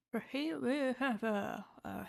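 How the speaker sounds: talking round a seed; words round a seed in the teeth; mouth full. Real, not acted. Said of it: "another seed stuck in my mouth".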